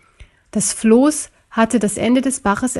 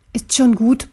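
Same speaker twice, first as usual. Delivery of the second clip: reassuring. Acted. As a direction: gently reassure a friend, understated. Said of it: "beruhigte ihn Butler".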